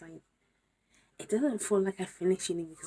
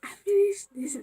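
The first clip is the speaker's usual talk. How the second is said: excited; 11 dB louder than usual. Real, not acted. Disbelief at finishing degree.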